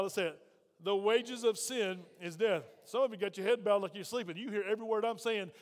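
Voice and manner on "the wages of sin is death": slow, measured recitation of "The wages of sin is death"; out loud together. Shown as a demonstration. Preacher leading congregation to say it with him, slow and deliberate. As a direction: stretch "wages of sin is death" for a crowd to follow. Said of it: "Say it with me out loud".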